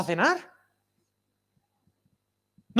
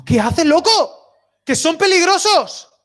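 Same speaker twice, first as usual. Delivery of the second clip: higher, louder and slow, calling out in alarm; alarmed shout; 7 semitones higher, 5 dB louder, slower than usual. Retold or imitated. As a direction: shout at the man to get away from the lions.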